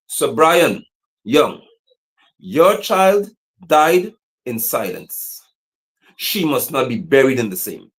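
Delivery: very slow, grave, each word weighed; slow mournful proclamation; slow solemn address. Acted. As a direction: deliver it slowly like a eulogy.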